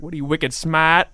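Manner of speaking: put-on slightly drawn-out parody of a Boston accent; mock a Boston accent on "smart". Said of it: "their accents suck".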